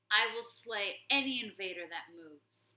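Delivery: loud stern warning; warrior shouts. Acted. Warrior warning the rat horde, loud shout. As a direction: warn the whole army. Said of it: "Matthias shouted".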